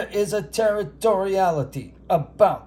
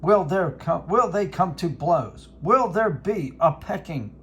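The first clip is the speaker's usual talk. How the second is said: Howard Cosell. Acted. Announcing the robin and dove rivalry as a hammed sportscaster. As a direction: build the bird standoff like a title bout. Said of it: "This is Howard Cosell".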